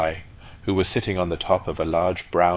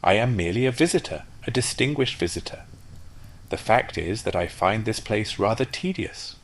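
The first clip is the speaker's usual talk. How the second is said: higher, disdainful rocket; snobbish rocket; 4 semitones higher than usual. Acted. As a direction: sniff at the provinces. Rocket sneers at the pond.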